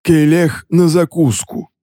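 high, slow gloating taunt; smirking. Acted. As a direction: gloat over the victim. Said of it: "усмехнулся Иоанн Ри".

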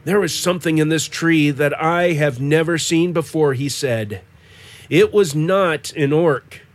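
calm storytelling read; story narration. A narrator's reading. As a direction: read it like an audiobook. Reads the novel aloud.

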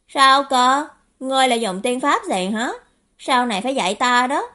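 eager youngster begging to learn; impressed eager youth. Acted. (thiếu niên trầm trồ, háo hức)

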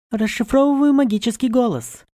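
high, eerie magical announcer; siren voice. A narrator's reading. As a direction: read it out like a spirit decoding. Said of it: "сообщила сирена".

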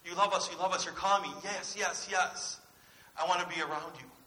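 loud, eager puppy-dog gushing; a hint of a bouncing, overjoyed dog. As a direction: gush like a dog whose owner just came home. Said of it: "are we like the dog".

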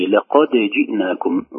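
لقد جئناكم with the dal of لقد bounced clearly before the jeem; لقد جئناكم, slow, dal released with an echo; clear qalqala on dal. Shown as a demonstration. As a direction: sound the dal of لقد plainly, slowly. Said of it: "حرف الدال بقلقلته قبل الجيم".

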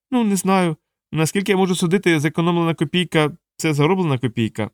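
lightly voiced sly dwarf; shifty dwarf.

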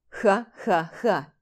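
slow, spelled-out mocking laugh; demonstrative laugh. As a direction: laugh at her on purpose. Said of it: "Демонстративно рассмеялся". (нарочитый медленный смех)

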